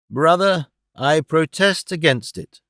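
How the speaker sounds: put-on slow, firm protest from a frail old man; lightly voiced old uncle making a stand; a hint of an old man's sudden defiance. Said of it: "astounded his audience".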